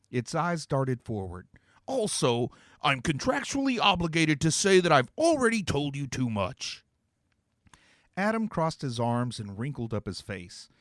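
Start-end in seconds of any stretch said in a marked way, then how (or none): 1.8-6.8 lofty, higher demon voice with odd timbre. Acted. Demon to the heroes, pronouncing a dramatic prophecy. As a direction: intone it like a grand, theatrical demon. Demon adds a legal aside.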